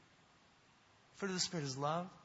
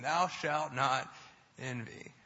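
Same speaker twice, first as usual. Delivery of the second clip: mock commandment repeated; 5 dB louder, much slower than usual. Repeats the parodied commandment for emphasis.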